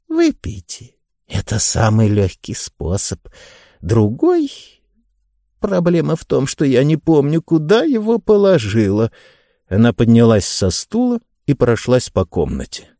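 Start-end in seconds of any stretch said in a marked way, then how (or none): 0.1-9.1 put-on high, sweet old lady; light elderly woman's voice. Mrs Lancaster voiced in audiobook.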